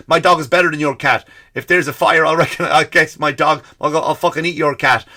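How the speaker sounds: mock passionate. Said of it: "this whole fucking thing".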